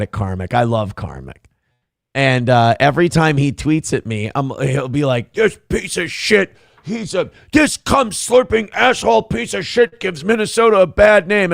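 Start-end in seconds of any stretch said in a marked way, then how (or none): 5.3-11.5 higher-pitched imitation of an angry tweeter; hammed-up, straining insult tirade; mock angry rant. Imitating Karmic tweeting abuse at him, mock angry rant. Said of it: "be angry at me".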